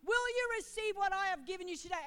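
a hint of a herald angel; angel messenger. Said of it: "like the sound of many rushing waters, that voice".

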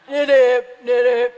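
loud imitated frog call; short, forceful froggy croaks. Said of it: "you know, like that".

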